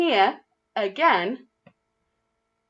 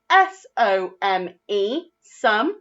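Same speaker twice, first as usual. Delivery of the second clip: slow spelled-out letters; much slower than usual. Shown as a demonstration. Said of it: "they are spelt".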